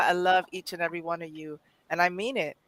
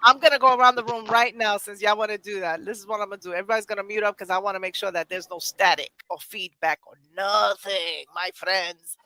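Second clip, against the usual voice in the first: talking like that; faster than usual. Pretend. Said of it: "Why am I talking like that?".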